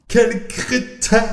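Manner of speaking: high, slow astonished cat voice; stunned cat. Acted. Cat Salem stunned that the parrot isn't afraid. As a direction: drag it out in disbelief. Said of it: "se dit le chat abasourdi".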